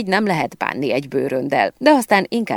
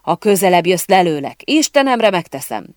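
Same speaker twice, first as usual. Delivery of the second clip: loud, raised action-hero threat; forceful acted yell, pitched up; shouted threat; 5 semitones higher, 4 dB louder than usual. A narrator's reading. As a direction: shout a warning as if ready to fire. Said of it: "kiáltott az akcióhős".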